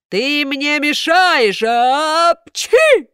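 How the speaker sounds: loud slow scolding ending in a sneeze; angry shout. A narrator's reading. Karabas scolds Buratino, loud angry then sneezing.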